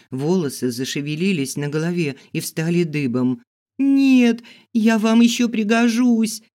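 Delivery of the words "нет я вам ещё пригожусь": high loud begging; frantic plea. Acted. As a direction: blurt it out desperately. Begging for her life.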